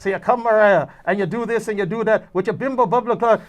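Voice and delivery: mock Jamaican patter; imitating bad Jamaican accent. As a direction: rattle off a poorly held Jamaican accent. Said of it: "One guy was doing the accent".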